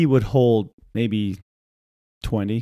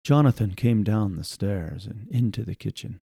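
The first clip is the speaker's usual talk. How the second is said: quiet, even newscaster read; narrator voice; 5 dB quieter than usual. Retold or imitated. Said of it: "That's the newscaster voice".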